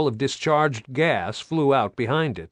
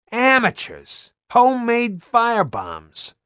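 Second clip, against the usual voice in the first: scornful yell; 11 semitones higher than usual. Acted. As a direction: spit out contempt at the attackers. Soldier yelling during firefight.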